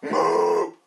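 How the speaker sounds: retry the cow moo, still mock; second cow moo. After calling the first moo terrible, a retried mock moo. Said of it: "I can't do a cow".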